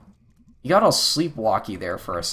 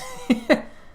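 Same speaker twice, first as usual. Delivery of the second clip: eerie laugh; 12 semitones higher than usual. Acted. Dark voice mocking in dream.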